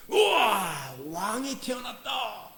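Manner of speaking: crowd cheering, slow and lifted; excited crowd. Retold or imitated. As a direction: call out like an awed crowd. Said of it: "사람들이 뭐라 그랬습니까". (감탄하는 군중의 외침)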